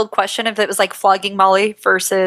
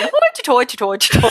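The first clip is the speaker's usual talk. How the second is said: mock Irish; 4 semitones higher, faster than usual. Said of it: "I don't know if I can do Irish".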